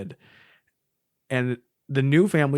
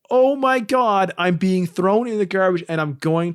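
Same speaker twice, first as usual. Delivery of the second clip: mock panic; 5 semitones higher, 4 dB louder than usual. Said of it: "the rest of them are like".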